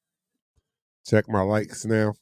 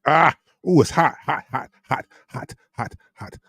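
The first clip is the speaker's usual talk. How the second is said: yelping at something too hot; hot hot hot, hands burning; 5 semitones higher, 3 dB louder than usual. Real, not acted. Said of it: "It's too hot".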